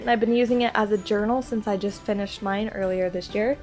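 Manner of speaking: stuffy nose from a cold; nasal, blocked-up cold voice; congested voice. Real, not acted. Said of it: "if I sound congested, it's because I am".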